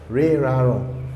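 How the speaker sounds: Re, ra, ron sounded out one by one; three ending sounds. Shown as a demonstration. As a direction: spell out Re, ra, ron slowly as a demo. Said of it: "we always have three sounds".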